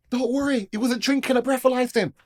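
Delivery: loud, high calling-out; retold urgent reassurance. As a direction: call over to reassure someone. Policeman calling out to the girlfriend.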